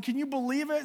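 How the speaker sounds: very high squeaky mouse voice; the mouse asks the cow, squeaking in disbelief. Acted.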